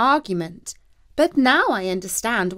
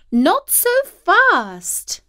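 cat's voice; 11 semitones higher, 6 dB louder, much slower than usual. A narrator's reading. Cat voiced in story.

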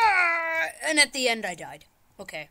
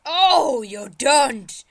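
loud drawn-out defiance, starting high; indignant shout; 4 semitones higher, 11 dB louder, much slower than usual. Pretend. Player defies the game's obstacle, indignant shout. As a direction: holler it in playful outrage. Fighting the game.

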